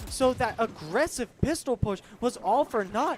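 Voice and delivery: excited live play-by-play; esports caster. Acted. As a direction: call the action, building to a shout.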